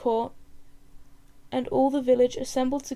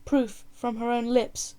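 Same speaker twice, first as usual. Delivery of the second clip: mild scream; slower than usual. Acted. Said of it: "screamed the chief advisor".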